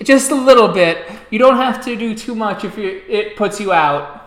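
slightly giggly sister. A narrator's reading. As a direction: answer politely after a little giggle. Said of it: "Snickers kinda giggles a bit and she goes".

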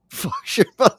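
high-pitched mocking echo through laughter. Echoes the other host's swear, laughing.

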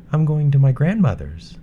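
put-on bright, high young girl; a sweet, polite little girl. Girl answers wolf.

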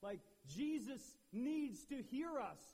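loud, high call out; megaphone style. Retold or imitated. Blind men cranking up their cry, loud. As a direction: shout like a megaphone. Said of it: "megaphone style".

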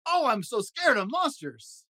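scared. Acted. Grover fears the monster.

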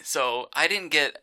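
hiccuping mid-sentence; speech broken by hiccups. Real, not acted. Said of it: "sorry, I got the hiccups".

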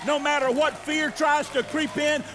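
fervent call and response; building preaching refrain. Acted. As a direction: build each line to the hallelujah.

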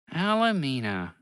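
slow, tender name; fond. Acted. Bobby hears his ship's new name, a touch of fondness. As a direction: say it like a dear memory. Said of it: "Bobby said with fondness".

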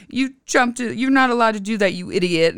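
mock scold the kid who jumped in; imitating lifeguard. Son retells lifeguard's scolding, mock scolding voice. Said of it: "she said".

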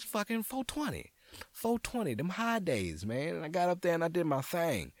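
a hint of a stoned comic; high mock stoner voice. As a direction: float the words up high, as if high. Joking about the high day.

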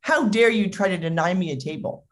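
huffy, offended entitlement; acted outrage, mild; indignant customer. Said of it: "And he's like".

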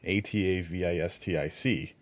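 whispered letter by letter, A T A V I S T I C; spelling it out. Shown as a demonstration. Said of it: "Have you heard of the word atavistic?".

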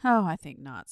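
a touch of idle unconcern; loud opening sliding down lazily; lazy. A narrator's reading. Dragon dismissing the boy's warning, lazily. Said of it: "said the dragon in a lazy way".

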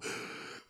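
sharp breathless gasp from inhaled dust; choking gasp. Real, not acted. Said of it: "inhaled dust".

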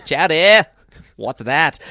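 loud, high, mocking chowder; mock the waiter's word loudly; Quimby voice. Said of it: "Quimby doing the waiter".

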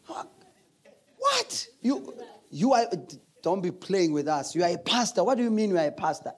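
hijacker's disbelief. Retold or imitated. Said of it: "I'm a pastor".

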